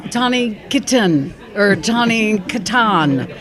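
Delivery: Kitaen as "kitten", then Katan as "kuh-TAHN"; common mispronunciations. Shown as a demonstration. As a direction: demonstrate the wrong names, KIT-en and kuh-TAHN. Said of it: "a lot of people say".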